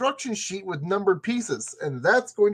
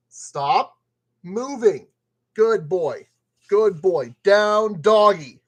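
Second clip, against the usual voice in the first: firm commands, building louder; mock-aggressive dog commands; 4 dB louder, much slower than usual. Talking to a thing like a disobedient dog, mock-aggressive. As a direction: order it down like a dog. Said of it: "Getting a little bit too aggressive".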